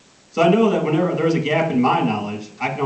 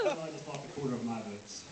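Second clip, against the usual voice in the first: laughing aside; 16 dB quieter than usual. Real, not acted. Aside after joke falls flat.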